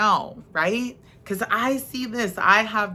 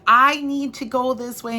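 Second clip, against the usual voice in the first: high, louder demanding; insistent driver; 6 semitones higher, 5 dB louder than usual. Retold or imitated. Driver insisting to flagger on a closed road, high and pushy. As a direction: push it like an impatient driver. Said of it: "people that were like".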